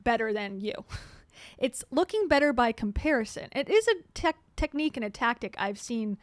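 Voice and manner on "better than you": louder, fast smug justification; mock smug excuse. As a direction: rush through the excuse like a smug guy. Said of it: "He's like".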